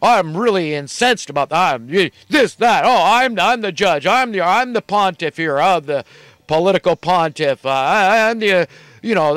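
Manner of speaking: lightly mock the preening lawmaker; self-righteous politician. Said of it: "acting like they're all self-righteous".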